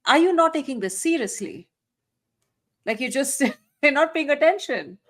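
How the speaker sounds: ordinary talk, nothing marked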